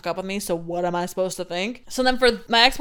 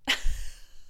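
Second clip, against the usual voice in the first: breathy laugh; 5 dB quieter than usual. Real, not acted. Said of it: "you just have to laugh".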